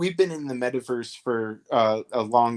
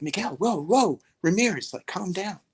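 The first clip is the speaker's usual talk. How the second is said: high, mock-soothing reassurance; lightly mock-calm wizard claim; 7 semitones higher than usual. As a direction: play it deadpan mystical, pitched up. Calming inmate, claiming wizardry.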